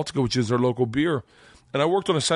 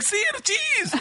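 much higher, with a laugh; laughing eager echo; slower than usual. Retold or imitated. Student repeating the order to Igor, much higher with a laugh. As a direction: repeat it back, delighted. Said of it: "And I was like".

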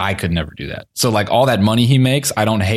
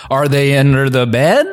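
creepy searching; 4 semitones higher, 3 dB louder than usual. Retold or imitated. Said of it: "the way he went about it was very creepy".

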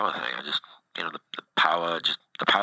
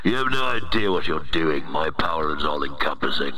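booming demon lord. Acted. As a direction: play a self-important virus overlord. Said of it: "It's not my real voice".

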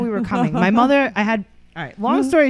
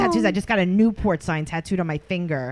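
put-on baby voice. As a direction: coo it like talking to a toddler. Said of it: "was he talking in baby voice".

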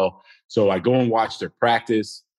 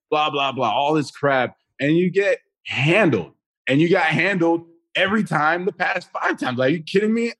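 heated rant; 5 semitones higher than usual. Real, not acted.

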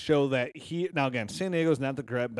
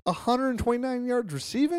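surprised; 10 semitones higher than usual. Real, not acted. Astonished at the stat.

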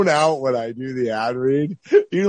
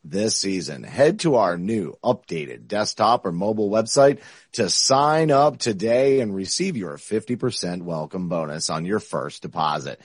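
ad read voice; 2 semitones lower than usual. Acted. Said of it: "I love my ad read voice".

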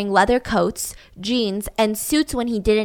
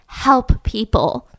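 sarcastic air quotes; much slower than usual. Acted.

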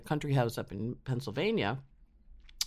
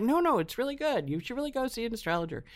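friends urging; 10 semitones higher than usual. Retold or imitated.

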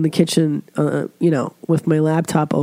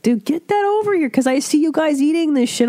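excited craving; 10 semitones higher, faster than usual. Retold or imitated. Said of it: "I'm like".

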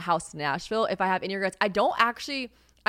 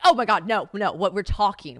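loud mock teenage groan; teen exasperation; 3 semitones higher, 8 dB louder than usual. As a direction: plead with Mom, mortified. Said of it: "I'm like".

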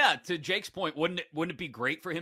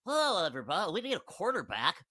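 a mild goofy take on the Raiders owner; Mark Davis impression; 3 semitones higher than usual. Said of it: "I just imagine him speaking like that".

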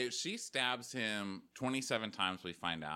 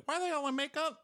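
mock incredulous; faster than usual. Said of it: "I was like".

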